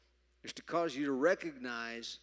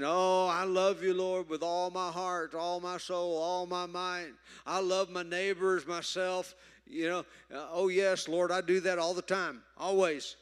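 high, loud showy devotion to the Lord; boastful piety; 5 semitones higher, 5 dB louder than usual. Acted. Believer boasting to God, in a high showy voice. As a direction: brag your love like a churchgoer showing off. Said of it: "when we run around boasting".

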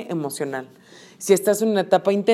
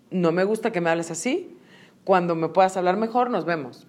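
calm, softer boundary-setting; límite tranquilo; 4 dB quieter than usual. Acted. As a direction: set the limit quietly and evenly, trailing softer. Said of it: "así de ... pero eso no es explotar". (poniendo un límite con calma, en voz más suave)

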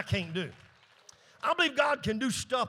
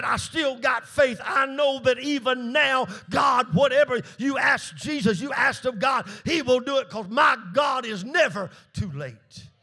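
Martha's fervent faith; 5 semitones higher than usual. Retold or imitated. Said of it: "She said".

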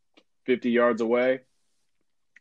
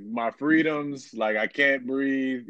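slow, higher whiny protest voice; mock anti-mask complainer; 4 semitones higher, much slower than usual. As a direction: drag out the complaint, hammed-up. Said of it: "I was a Republican".

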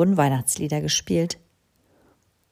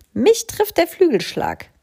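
wing hit; 11 semitones higher, 4 dB louder than usual. A narrator's reading. Crow flaps past cow.

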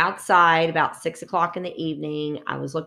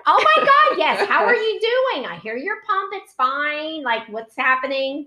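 excited greeting; 7 semitones higher than usual. Retold or imitated. Greeting a patient she recognizes by her pump, high excited. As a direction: burst up high with delight.

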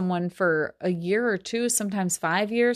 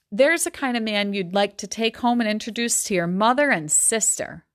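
measured novel reading voice; story reading; 3 semitones higher than usual. A narrator's reading. Teacher reading a Gatsby passage aloud, steady storytelling. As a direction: read the passage to the class.

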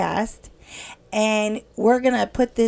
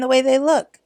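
breathy whispered aside, voice dropped right away; 3 semitones higher, 5 dB louder than usual. Retold or imitated. A host whispering to listeners about crying at work, unvoiced. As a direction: whisper it like a shy confession. Crying when someone looks at her.

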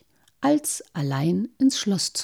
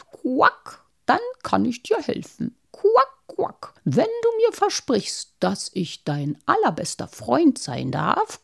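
toad voice. Acted. Toad bargains with princess.

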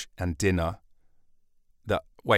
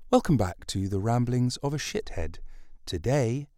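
mock host intro; 4 dB quieter than usual.

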